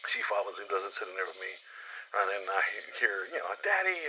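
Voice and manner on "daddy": imitating a kid. Kid greeting his father.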